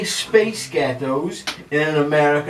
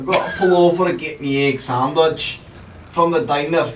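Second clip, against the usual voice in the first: attempted American trucker; 3 semitones higher, 3 dB louder than usual. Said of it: "like, Scottish, like, so".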